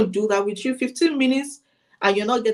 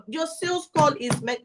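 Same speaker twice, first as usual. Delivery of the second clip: ordinary talk, nothing marked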